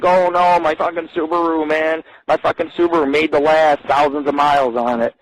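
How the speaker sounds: half-hearted wail over a lost car; mock crying. Man grieving his disabled Subaru, mock crying. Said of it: "Get on my hands and fucking knees and cry".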